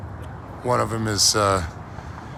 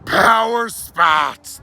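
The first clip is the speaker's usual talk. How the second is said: televangelist preaching. Pretend. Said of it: "That literally gave me chills".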